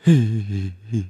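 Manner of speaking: acted whimpering sobs; sobbing. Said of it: "흐느끼면서".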